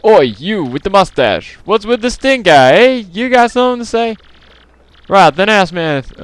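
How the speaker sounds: loud, high-pitched mock British accent; attempted British accent. Townsperson challenging the player, hammed-up British accent. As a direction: pipe up with a put-on British accent. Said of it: "there should be a British accent".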